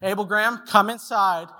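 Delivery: mildly upset, calling him in firmly; a little testy. Retold or imitated. Dad orders his two-year-old inside on the third try, a little testy. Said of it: "little testy".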